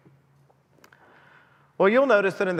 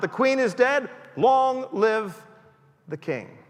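proclamation; 6 semitones higher, slower than usual. Retold or imitated. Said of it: "The cry went up".

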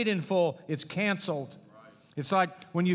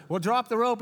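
loudspeaker call; 6 semitones higher than usual. Acted. Helicopter over loudspeaker.

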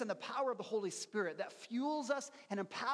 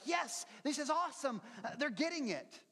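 excited parent; 5 semitones higher than usual. Retold or imitated. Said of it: "and you're like".

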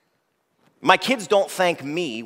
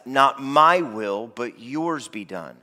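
quiet surrender; slower than usual. Acted. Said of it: "and prayed, saying".

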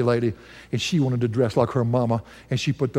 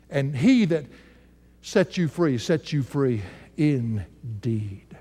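softening close; much slower than usual. Acted. Soft slow close of a point.

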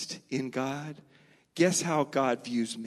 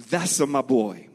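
put-on Italian accent; 4 dB louder than usual. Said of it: "put an Italian accent on that phrase".

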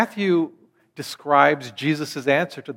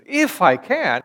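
raised-pitch incredulous echo; questioning echo; 5 semitones higher, slower than usual. Retold or imitated. Jesus echoing the father's doubt, incredulous. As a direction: throw the words back, higher. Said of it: "I don't know how you imagine him saying that".

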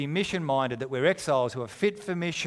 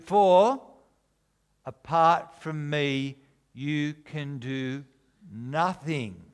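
1 scripture reading; slower than usual. Acted. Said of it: "reading scripture".

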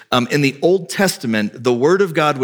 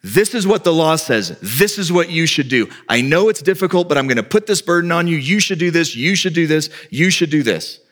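lightly voiced bossy rule-giver, pitched higher; mock lecturing hypocrite piling on duties; a hint of a preachy legalist; preachy burden-layer; 4 semitones higher than usual. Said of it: "See if you know any Christians like this".

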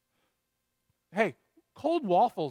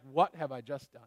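dismayed regret; 7 semitones lower, 6 dB quieter, faster than usual. Retold or imitated. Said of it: "you're like".

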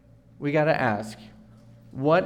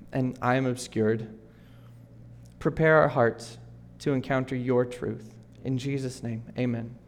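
prayer. Acted. Opening prayer.

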